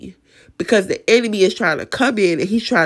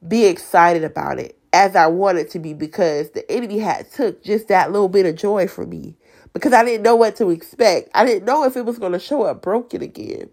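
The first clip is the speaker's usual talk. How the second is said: raspy voice. Real, not acted. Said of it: "my raspy voice".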